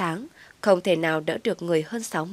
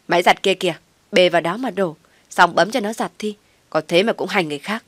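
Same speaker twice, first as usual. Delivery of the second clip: loud, scornful retort; talking back; 5 dB louder than usual. Acted. Daughter-in-law snaps back at mother-in-law, loud and scornful. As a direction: throw it back at her with contempt.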